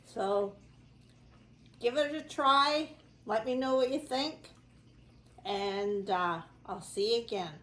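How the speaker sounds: talking with a mouthful of bread; mouth full. Real, not acted. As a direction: speak around a bite of food. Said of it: "Sorry for talking with my mouth full".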